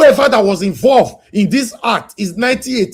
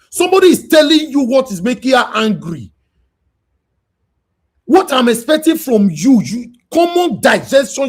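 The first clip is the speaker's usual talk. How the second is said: raised, scolding voice at a commenter; angry shout; 5 semitones higher than usual. Real, not acted.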